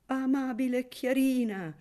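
put-on old guest declaiming to Chiarina in falsetto; falsetto declamation. A narrator's reading. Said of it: "declamò in falsetto don Nunziante".

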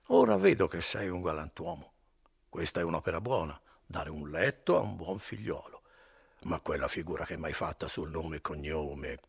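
lightly voiced drunk young man, self-satisfied; a hint of a boastful drunk; mildly slurred, smug drunk talk; tipsy Renzo. Drunk Renzo talks to innkeeper.

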